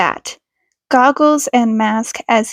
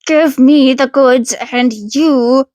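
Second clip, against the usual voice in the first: tough retort. Acted. Feathered-eared man snapping back at the gunman, cocky. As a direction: turn the tables, cocky.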